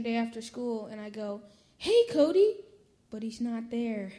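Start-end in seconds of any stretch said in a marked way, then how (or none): 1.8-2.6 calling out. Retold or imitated. Calling for his dog at home.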